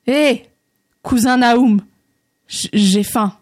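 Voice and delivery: tentative call with a slight stammer; hesitate, then repeat the phrase carefully; gathering courage. Acted. André timidly copying the little man, tentative call. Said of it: "rassemblant son courage".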